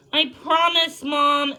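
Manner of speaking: put-on a girl reassuring her mom; eager promise. Ellie promising her mother eagerly.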